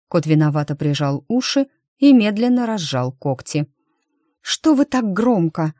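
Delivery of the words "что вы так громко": displeased. A narrator's reading. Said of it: "раздался недовольный голос".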